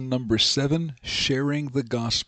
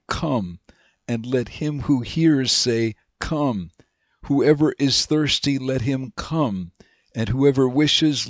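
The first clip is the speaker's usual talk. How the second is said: scripture reading. Acted. Reads James and Revelation aloud.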